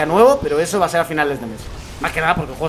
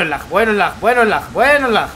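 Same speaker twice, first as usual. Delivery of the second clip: rising frustration; 3 semitones higher, 4 dB louder than usual. Real, not acted. Lag building up.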